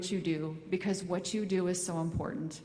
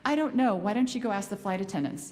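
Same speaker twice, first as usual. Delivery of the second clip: mom's brush-off; 4 semitones higher than usual. Retold or imitated. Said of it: "she's like".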